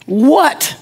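mock-momentous announcement with long pauses; retold revelation. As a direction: build word by word, pausing, to a big punchline. Friend's big revelation retold.

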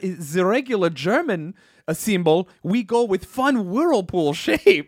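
lightly put-on German voice; a silly German-accented pitch. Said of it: "I can't do a German accent".

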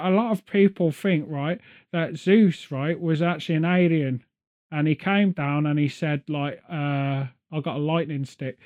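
a hint of a know-it-all nerd. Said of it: "this is my nerd voice".

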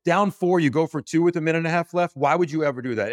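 can't believe that coaching call, pitch climbing; exasperated rant. Real, not acted.

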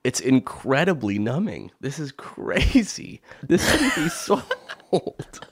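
slow speech through a numb mouth; numb tongue. Real, not acted. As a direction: numb mouth, half laughing. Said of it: "My tongue is numb".

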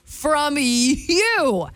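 weary, emphatic monologue, trailing away at the end; dramatic script reading. Acted. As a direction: stretch the key words and pause between phrases. Reads the quiz script in performance.

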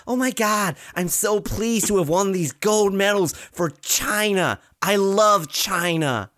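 lightly voiced gushing young star; Eileen Gu impression. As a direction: gush like a starry-eyed proud champion. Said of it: "She's like".

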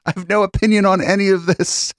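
high, alien indifferent drone; high aloof blunt. Retold or imitated. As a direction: shrug it off in a high, distant voice. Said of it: "They're like".

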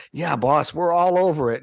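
high, over-eager agreement; eager yes-men. Retold or imitated. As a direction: nod along keenly. Guys placating boss.

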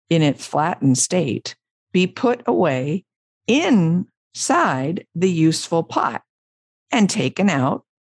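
expressive reading with swooping emphasis; story narration. A narrator's reading. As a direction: tell it to listeners phrase by phrase, savouring each.

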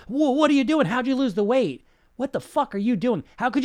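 loud, high mock asking; desperate dieter. Imitating a thirty-year dieter demanding answers. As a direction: ask like a frantic dieter.

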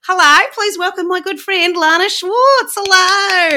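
gushing host introduction, loud and high; excited welcome. Acted. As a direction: hype up the guest's arrival.

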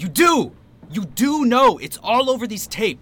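angry shout. Acted. Accusing a suspect in interrogation.

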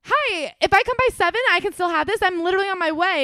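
acting out a high, loud eager plea. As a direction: imitate an overexcited urgent message. Acting out her pleading email.

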